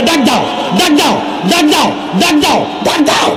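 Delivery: high, stretched calls to cry out; rising, pleading chant; urgent calling. Real, not acted. Urging crowd to call Allah.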